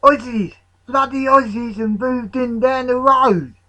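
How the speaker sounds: high, loud outraged outburst; worked-up cry of dismay; shouting. A narrator's reading. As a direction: shout the alarming news to your mates. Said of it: "he shouted".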